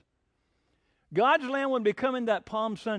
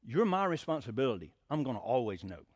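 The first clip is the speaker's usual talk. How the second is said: firm but loving dad; 3 semitones lower than usual. Retold or imitated. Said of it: "I said".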